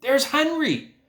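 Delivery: put-on high, eager girl's call; excited call. A narrator's reading. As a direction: spot a friend and call it out. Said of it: "cried Fern, pointing".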